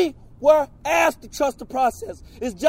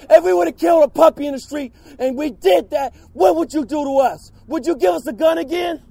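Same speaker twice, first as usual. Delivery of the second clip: angry shout. Real, not acted. Outraged protester at hearing.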